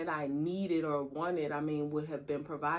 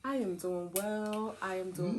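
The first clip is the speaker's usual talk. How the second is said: put-on voice. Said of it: "Do you like me to use my British voice?".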